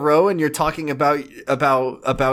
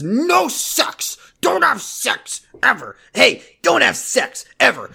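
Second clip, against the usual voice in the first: high mock girl voice shouting commands; Ashley voice; 8 semitones higher, slower than usual. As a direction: squeal the orders in a girly voice. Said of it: "I did Ashley voice for that".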